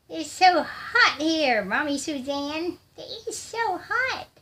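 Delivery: high, slow put-on whine; silly complaining voice. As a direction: complain to mommy in a squeaky, drawn-out pretend voice. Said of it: "I'm just being silly now".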